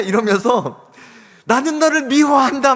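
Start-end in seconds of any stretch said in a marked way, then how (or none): 1.5-2.7 loud, high cursing yell; acted hateful shout. Son vents at his bully on the mountain, shouting hatred. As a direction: declare hatred across the mountain. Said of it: "막 이렇게 욕을 막 하는 거예요".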